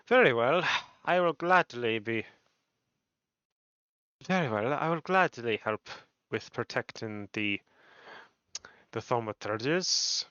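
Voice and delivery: put-on tentative Irish or Scottish accent; courteous reply in a light Scottish-Irish brogue; Xander. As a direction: feel out a mild Irish-or-Scottish lilt. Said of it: "this is how I feel like Xander talks".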